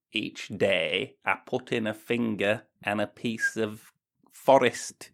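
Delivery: a lightly put-on letter-writer voice; Barnaby's letter voice. Reading the listener's letter aloud in a mildly put-on voice. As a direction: read it as a stuffy correspondent. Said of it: "that's not how he talks".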